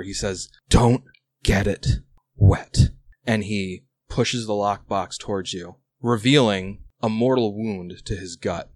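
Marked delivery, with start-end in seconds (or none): 0.7-2.9 hoarse dying whisper; raspy whisper. Acted. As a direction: rasp it out like a dying sailor. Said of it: "in a hoarse whisper".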